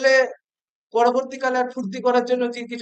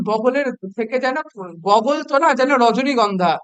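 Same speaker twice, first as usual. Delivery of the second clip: mock praise. Shown as a demonstration. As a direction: praise it sarcastically, for a laugh. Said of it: "আমি একটু ব্যঙ্গ করেই বলছি". (জোর গলায় ব্যঙ্গাত্মক প্রশংসা)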